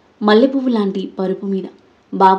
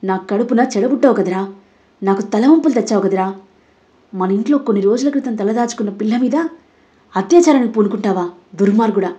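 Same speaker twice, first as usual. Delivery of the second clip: seething anger. Acted. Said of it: "కోపంతో రగిలిపోతూ అన్నాడు".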